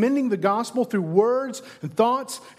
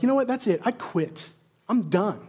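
frustrated quitting. Pretend. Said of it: "Would you be frustrated and be like".

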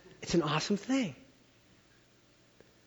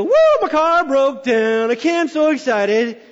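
mock cheer; 4 semitones higher, 5 dB louder, slower than usual. Mock cheer about broken car.

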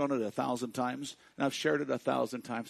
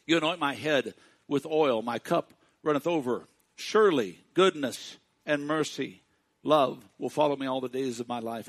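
1 forceful recitation; 6 dB louder than usual. Acted. Preacher reciting psalm forcefully.

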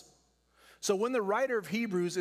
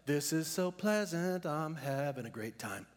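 mock carefree runner. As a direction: play the runner who finds it all easy. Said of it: "The race of faith is not one that's like".

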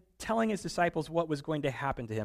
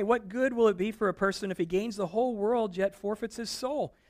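ordinary delivery

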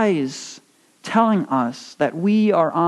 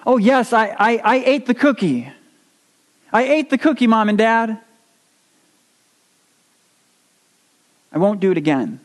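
higher, hammed-up tearful gush; fake crying confession; 4 semitones higher, faster than usual. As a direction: overdo the sorry child. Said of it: "looking like the first, breaking down and crying".

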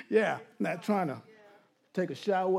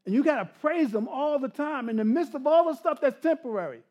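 impassioned preaching; 5 semitones higher, 4 dB louder than usual. Real, not acted. Preaches at raised force.

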